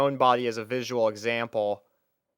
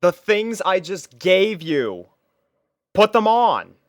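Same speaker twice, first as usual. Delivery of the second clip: louder, slower, insistent and fed up; exasperated; 8 semitones higher, 8 dB louder, slower than usual. Acted. Narrator insists the confused girl put clothes on, exasperated. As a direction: spell it out for someone who won't get it.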